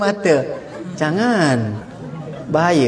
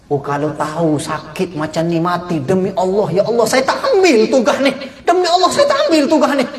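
lamenting plea. Acted. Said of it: "angel laments dying".

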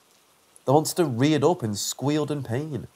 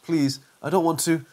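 fearful pleading; 3 semitones higher than usual. Acted. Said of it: "pain and fear accenting every word".

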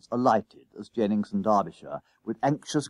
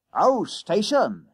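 slow, loud, high exclamation; dawning realisation; 10 semitones higher, 4 dB louder, slower than usual. A narrator's reading. Conductor at last lip-reading the boy, loud realisation. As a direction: draw it out as light dawns.

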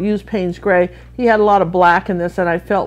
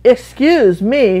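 slow, drawn-out "Excuse me", higher and louder; offended excuse me; 4 semitones higher, 4 dB louder, much slower than usual. Shown as a demonstration. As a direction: drag out "Excuse me" as if they've lost their mind. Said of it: "means, "Are you out of your mind?".

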